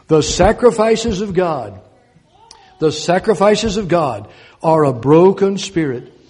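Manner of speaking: sacrifices stretched slow and loud; slow emphatic reading. Acted. Preacher pressing the verse on listeners, slow and emphatic. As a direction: lean hard on sacrifices, slowly. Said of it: "You hear that?".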